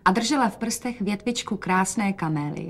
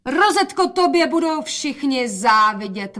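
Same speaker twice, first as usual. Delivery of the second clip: higher, slow excited call; 6 semitones higher, 4 dB louder than usual. A narrator's reading. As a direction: call out admiringly. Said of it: "volala matka". (matka volá obdivně)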